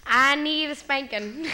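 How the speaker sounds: put-on slow, drawled Southern accent. Guest asked to talk about needing a spanking, in a Southern accent. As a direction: stretch out the Southern vowels. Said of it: "I can do the Southern accent".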